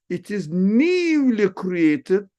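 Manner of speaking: high, slow, stressed "newly created"; slow, lifted emphasis on "newly created"; emphasised point. Shown as a demonstration. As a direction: lean hard on "newly created" as if underlining it. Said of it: "underline that, maybe double underline it".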